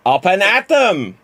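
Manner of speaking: a loose take on a friend's storytelling voice; hint of Jimmy Mac telling a joke; Jimmy Mac impression. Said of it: "do it as Jimmy Mac".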